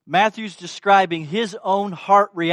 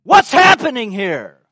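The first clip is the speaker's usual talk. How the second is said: louder, higher outraged demand; indignant demand; 4 semitones higher, 10 dB louder than usual. Retold or imitated. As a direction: snap it at the woman in disbelief. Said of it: "That's indignant".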